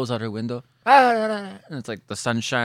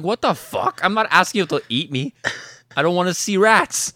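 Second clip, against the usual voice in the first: laughing outrage; 7 semitones higher, 7 dB louder than usual. Retold or imitated. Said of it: "I was like".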